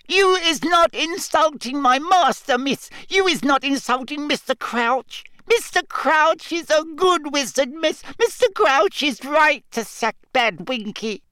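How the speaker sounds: very high shrill elf screech. Acted. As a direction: defend master in a screech. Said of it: "and screeched".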